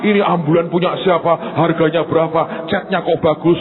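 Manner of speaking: lightly acted nosy crowd; curious onlookers. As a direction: imitate bystanders firing off questions. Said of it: "yang ditanya bukan sakit apa".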